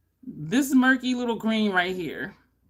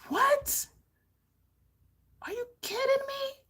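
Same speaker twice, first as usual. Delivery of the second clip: high-pitched, incredulous squeak; stunned disbelief; 4 dB quieter than usual. Retold or imitated. Makeup vlogger reliving her shock at a palette, high disbelief. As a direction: jump way up in pitch, floored.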